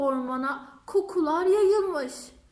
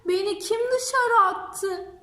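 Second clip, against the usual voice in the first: crying; 7 semitones higher, 4 dB louder than usual. Acted. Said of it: "diye ağlamaya başlamış".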